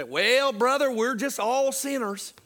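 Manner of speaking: mock a pious Southern churchgoer, stretching the vowels; real Southern voice. Preacher imitating Southern religious people, exaggerated Southern accent. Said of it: "say this in a real Southern voice".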